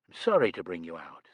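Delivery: gently apologetic to the maid; kindly, understated apology; pleasant. A narrator's reading. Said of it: "said Elaine pleasantly".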